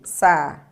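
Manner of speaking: Sa-i-deira broken into syllables, loud and clipped; split into syllables. Shown as a demonstration. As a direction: tap out each syllable of Sa-i-deira. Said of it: "Olha aqui".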